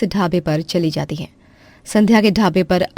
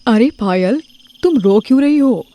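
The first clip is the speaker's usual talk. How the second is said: put-on higher young woman asking anxiously; concerned young relative; 4 semitones higher than usual. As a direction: rush in and ask her what happened. Another relative asks. (ननद भाभी से रोने की वजह पूछती है, ऊँची घबराई आवाज़ में)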